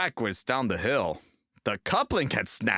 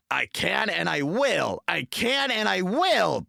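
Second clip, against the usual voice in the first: higher, louder, determined; determined puffing; 10 semitones higher, 4 dB louder than usual. A narrator's reading. James answering the trucks, determined. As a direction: push through with grit. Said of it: "puffed James".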